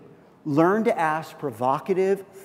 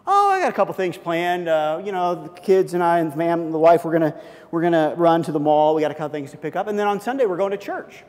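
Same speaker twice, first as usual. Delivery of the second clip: coworker answers; 5 dB louder than usual. Pretend. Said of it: "they'll say back".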